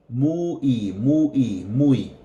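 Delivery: muy repeated as a clear drill. Shown as a demonstration. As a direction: repeat muy three times, crisply. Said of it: "Muy is very".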